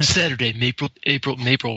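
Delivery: booming trailer narrator, dramatic pauses; movie announcer voice. Shown as a demonstration. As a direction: announce each word like a film trailer. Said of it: "I have to read this in, like, a movie announcer voice".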